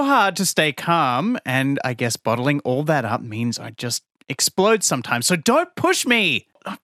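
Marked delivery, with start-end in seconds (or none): 5.3-6.8 hammed-up losing cool. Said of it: "You made me lose my cool again".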